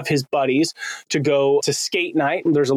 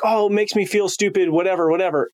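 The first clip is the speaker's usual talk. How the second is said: higher-pitched mock whine, then brushing it off; retold defensive; 4 semitones higher than usual. Husband reacts to wife's chuckle, mildly defensive. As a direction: act out a mildly wounded brush-off. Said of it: "I got defensive in the chuckle".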